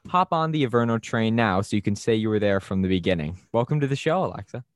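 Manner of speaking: polished podcast host intro; announcer intro read. Acted. Reads scripted guest intro over music.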